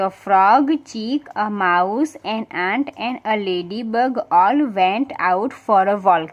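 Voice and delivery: spell-out pace, word by word for notebooks; slow dictation reading. Shown as a demonstration. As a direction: read each word slowly so pupils can write it. Teacher dictates English story slowly. (શબ્દેશબ્દ ધીમે લખાવતું વાંચન)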